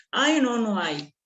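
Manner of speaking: slow, squeaky cartoon mouse whine; Mickey Mouse voice. Teacher mocking slang in a Mickey Mouse voice. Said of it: "Todo más Mickey Mouse".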